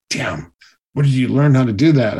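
a jealous coach forced to admit it; grudging. Retold or imitated. Jealous coach grudgingly asks where he learned the flips. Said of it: "he was so mad".

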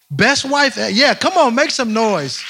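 loud, high cheerleading call; rally the room to applaud; hyping the crowd. Real, not acted.

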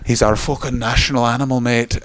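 badly faked Scottish accent; muddled accent. Comic voicing a Scot defending Peter Capaldi, in muddled Scottish accent. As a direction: attempt a Scottish accent and miss slightly. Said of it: "I don't know what accent that was".

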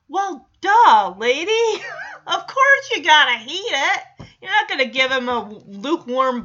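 laughing, loud and high disbelief; laughing exasperation. Real, not acted. Mocking the overcautious mom.

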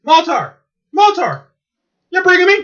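Space Ghost whining. Retold or imitated. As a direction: wail it like a sulking superhero. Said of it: "He goes".

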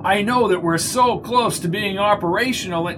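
a lightly nervous underling; nervous man voice. A narrator's reading. Mundy voiced in story.

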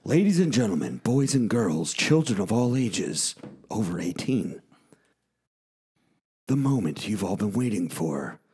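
big showman announcer intro; ringmaster. Acted.

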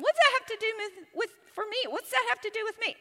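sceptical listener. Acted. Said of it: "you might go".

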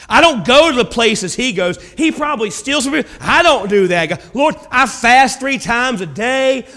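mild mock of a boastful believer at the altar; lightly hammed-up smug praying; smug self-righteous prayer. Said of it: "the old super Christian gets up".

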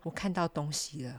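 hushed dazed awe; on laughing gas. Retold or imitated. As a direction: whisper it like a vision. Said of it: "他就直接跟他医生说：".

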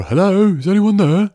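calling out. Acted. A farmer calls over to the gravediggers, shouted hail. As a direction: call across a distance. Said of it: "Somebody calls over".

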